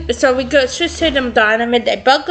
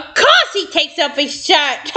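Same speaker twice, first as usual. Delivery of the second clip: laughing; 3 semitones higher than usual. Acted. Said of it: "Samantha yells out".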